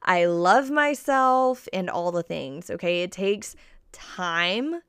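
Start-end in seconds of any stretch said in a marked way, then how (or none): 0.0-1.7 slow, louder, higher mock gushing; hammed-up instant self-love; sarcastic sing-song affirmation; mock self-praise. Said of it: "it's not just like snap of a fingers".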